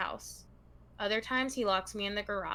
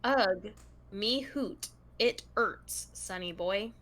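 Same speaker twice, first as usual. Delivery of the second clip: put-on Scottish accent; much slower than usual. Host showing co-host how the letter is written, in an attempted Scottish accent. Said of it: "It's written in Scottish accent".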